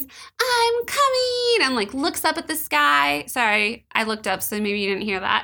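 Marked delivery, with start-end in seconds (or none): 0.0-1.7 play-acted, very high, screamed-out cry. Recounting a story scene where a woman looks up at the sky, retelling a scream. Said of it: "And then she screams".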